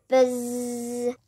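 drawn-out imitated buzz; angry bee buzz. A narrator's reading. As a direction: imitate bees with a long buzz. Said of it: "an angry sound".

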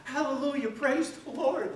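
high, loud, slow cry of praise; joyful shout. Retold or imitated. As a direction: belt out the praise with glee. Second healed man rejoicing.

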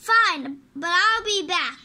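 loud, defiant exit line; acted huffy retort; angry parting shot. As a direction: throw it back as you storm off. Ousted parent's parting threat.

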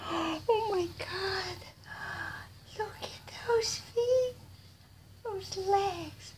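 high, breathy, slow gush of wonder; high awe. Real, not acted. Admiring the doll's feet, high awed gush. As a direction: marvel at tiny feet in a high voice.

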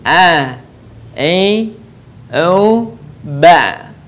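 "A, I, U" pressed from the mid throat; ain from the throat. Shown as a demonstration. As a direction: push each vowel from the throat. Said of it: "Perhatikan sekali lagi".

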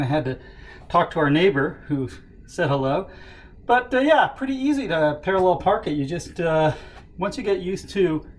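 winded after running upstairs; breathless, still catching breath. Real, not acted. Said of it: "Sorry, I'm out of breath".

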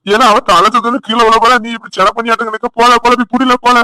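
loud, exasperated yelling; shouting. Acted. Husband shouts at family over the faked dizziness, loud. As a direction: yell across the room to stop the drama.

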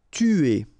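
"Tuer" said with a French u, tü-AY, lips rounded; French word. Shown as a demonstration. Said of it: "U is really pronounced like U".

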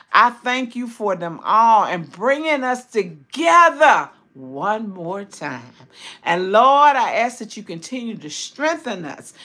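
earnest spoken prayer, key words lifted, lines falling at the close; heartfelt prayer. Real, not acted. Praying to the Lord for a recovering sister, heartfelt prayer. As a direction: pray aloud with rolling, emphatic phrasing. Prays aloud for sisters on live.

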